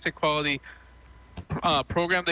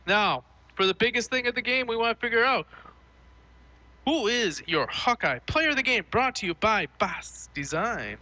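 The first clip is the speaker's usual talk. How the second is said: raised pitch building up the award; award announcer; 7 semitones higher than usual. Acted. Host unveiling the Hawkeye Player of the Game, announcer voice. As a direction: announce the big honor, drawing out the sponsor tag.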